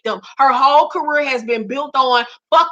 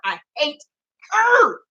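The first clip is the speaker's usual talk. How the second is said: mock crying; slower than usual. Ranting about a singer, mock sob. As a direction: fake a whimper on the last word.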